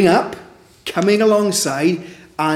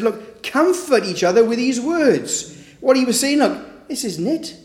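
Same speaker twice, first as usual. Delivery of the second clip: fervent exhortation; 7 semitones higher than usual. Pretend. Preacher voicing Paul's exhortation.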